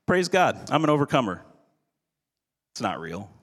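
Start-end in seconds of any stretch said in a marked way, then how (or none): 0.0-1.4 bright, higher, over-cheerful mock praise; a touch of a mocking churchy cheer; fake joy. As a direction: chirp it like hollow forced joy. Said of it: "I like to call fake joy".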